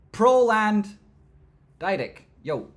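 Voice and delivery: very high, loud held shout; drawn-out high shout; excited hail. Real, not acted. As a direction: bellow it like a rallying cry. Hails viewer from Poland.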